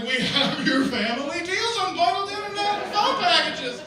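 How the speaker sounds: comic over-the-top menace; hammed-up ransom-note read. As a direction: read the junk mail like a kidnapper's threat. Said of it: "I got real into that last one".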